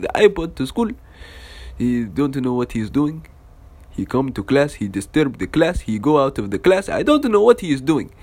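lightly voiced complaining teacher; a touch of mock exasperation; tattling teacher. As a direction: imitate a teacher reporting a troublesome pupil. Teacher keeps complaining to dad.

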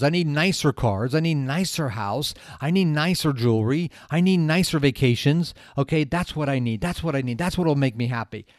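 loud, insistent list of wants; imitated eager craving. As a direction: act out escalating greed, hammering each want. Acts out Ken's escalating wants.

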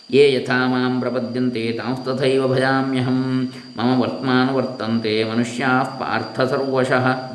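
slow, lightly chanted Gita verse; scripture recitation. Acted. Teacher quoting the Gita to listeners, slow recitation. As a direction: recite the sloka slowly and evenly.

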